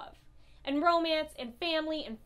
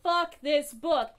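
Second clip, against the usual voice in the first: slow angry curse; 5 dB louder, slower than usual. Real, not acted. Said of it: "I am so full of rage".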